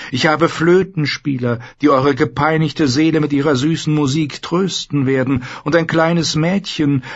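a silken, coaxing trader; merchant Xaro. Acted. Xaro warns the queen, high and coaxing.

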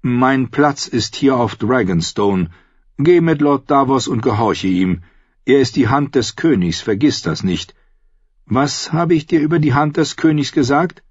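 mildly instructing a pupil, ending on a prompt; teacher, gently firm. Acted. Young maester sending his pupil off, gently firm.

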